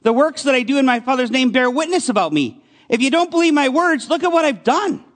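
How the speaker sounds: indignant. Retold or imitated. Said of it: "he gets kind of indignant".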